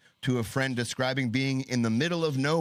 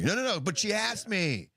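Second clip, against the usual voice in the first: higher pleading protest; whiny mock protest; 9 semitones higher than usual. Imitating the accused protesting arrest, whiny. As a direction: whine the excuse. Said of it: "He's like".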